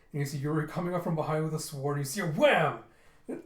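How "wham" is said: loud, punchy "wham"; imitated impact. Yuri striking from behind, punchy impact. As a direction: hit it like a comic-book sound effect.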